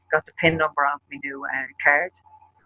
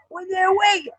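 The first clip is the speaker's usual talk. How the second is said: much higher, urgent call; calling after; slower than usual. Retold or imitated. Boyfriend calling after her at the gate, in an urgent high call. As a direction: call out after someone who is leaving.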